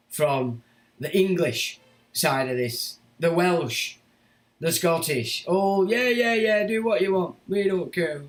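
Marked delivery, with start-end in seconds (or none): 5.5-8.2 higher, louder mock of a cowering crowd; hammed-up nervous yes-man; mock appeasing. Mocking the scared population.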